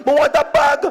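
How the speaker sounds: high, loud fake American twang on "bag". Jamaican at the store, putting on a North American twang. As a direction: put on a forced foreign twang. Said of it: "I began to twang".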